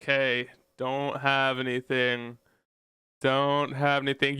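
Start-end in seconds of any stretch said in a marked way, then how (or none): none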